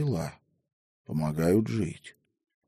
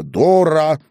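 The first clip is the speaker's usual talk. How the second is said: loud, higher lashing insult; icy fury; 8 semitones higher, 8 dB louder than usual. A narrator's reading. Headwoman repeats the insult, icy fury. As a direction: crack it like a whip. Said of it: "в ледяном бешенстве повторила староста".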